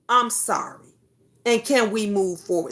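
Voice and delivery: plain, simple "I'm sorry" with no "but"; sincere apology. Shown as a demonstration. Vlogger modeling the right apology to a child, sincere. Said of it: "just fucking say".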